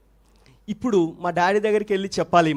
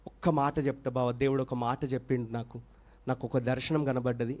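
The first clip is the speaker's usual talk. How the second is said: softer, careful asking; timid plea; 4 semitones lower, 6 dB quieter than usual. Retold or imitated. Wife gently asks her husband to hear her out, softly. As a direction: tread lightly so he won't lash out. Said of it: "నెమ్మదిగా పోయిందంట".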